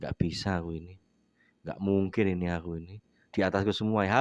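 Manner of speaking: nervous self-doubt. Retold or imitated. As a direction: mutter it like a beaten nervous speaker. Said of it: "Sekali Anda berpikir".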